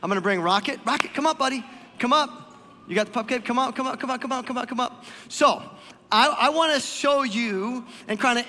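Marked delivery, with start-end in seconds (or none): 0.8-3.9 calling a dog. Real, not acted.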